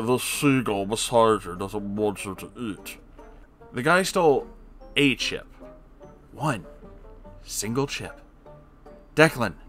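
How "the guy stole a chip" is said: ordinary delivery, nothing marked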